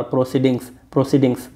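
"प्रोसीडिंग्स" repeated with the closing s sounded; repeated plural drill. Shown as a demonstration. Teacher drilling the word for students, final s sounded. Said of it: "पढ़ो इसको बार बार".

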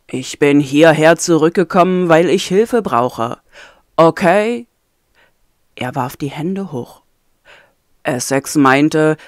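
low, firm, weary prisoner; a hint of a tired, stubborn captive; lightly voiced captive man. Ayem's voice held in story.

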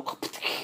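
quiet voiceless popper noise; imitated party popper. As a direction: sputter like a little party popper. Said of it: "pull the string and they go".

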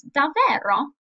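incredulous Davvero repeated for the class; surprised davvero. Shown as a demonstration. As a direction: ask Davvero as if you can't believe it. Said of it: "the intonation came with these expressions".

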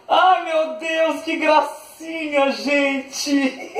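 slow, high gushing through laughter; drawn-out giggly awe; delighted laughing. Real, not acted. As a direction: melt over something adorable, laughing. Delighted by a cute gift.

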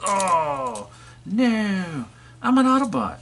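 high squeaky protest; high toy robot voice. Pretend. Grapple protests that he is an Autobot, high squeaky voice.

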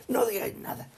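hushed whisper, a secret tip; unvoiced conspiratorial whisper. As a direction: whisper it like advice behind closed doors. Advising the government in role.

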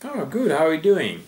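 breezy greeting reply. Shown as a demonstration. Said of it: "The correct way of answering this is say".

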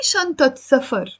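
شنطة ending in -at before سفر; shantat, then سفر; T pronounced at the join. Shown as a demonstration. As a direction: sound the T of شنطة. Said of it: "I am gonna pronounce the T".

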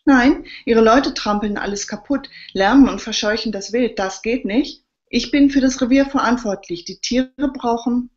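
put-on an old forester refuses to be sent away; angry protest. A narrator's reading.

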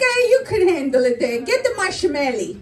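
put-on Italian-accented mom brushing off objections; light imitation of a bossy Italian mother; mother's Italian accent. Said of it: "She's like".

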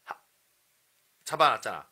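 ordinary talk, nothing marked

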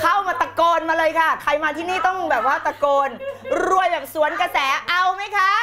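high-pitched hype call to the crowd; rally them to shout back; pumped-up, high, projected voice; loud rallying call. Real, not acted. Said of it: "ครูจะใช้เสียงดังขนาดนี้ทำไม".

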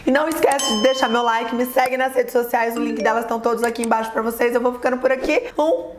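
a cracked, hoarse voice. Real, not acted. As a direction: talk through a raspy, cracked throat. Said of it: "desculpa essa voz de taquara rachada". (voz rouca de taquara rachada)

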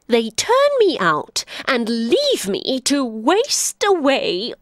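put-on an old beast nursing a grudge; donkey grieving over cruel humans; bitter old donkey.

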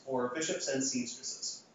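slow, falling second option put to the class; slow test reading. Shown as a demonstration. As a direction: offer the second choice slowly and let it settle. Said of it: "I'm going to give you two ordered expressions".

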